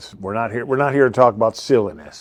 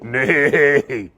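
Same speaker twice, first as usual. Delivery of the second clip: mock neigh; 2 semitones higher than usual. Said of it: "you start talking like this".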